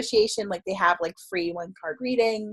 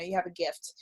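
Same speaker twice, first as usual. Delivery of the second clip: soft, lowered voice; gentle retold advice; 4 semitones lower, 8 dB quieter than usual. Older psychic advising a young reader, gentle advice. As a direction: quote a mentor's counsel quietly. Retells elder's solemn spiritual advice.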